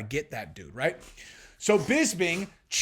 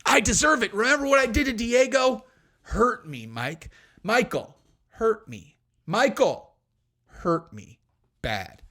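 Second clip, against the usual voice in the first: pleading Fabia; 2 semitones higher than usual. Retold or imitated. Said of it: "Fabia perked up and was like".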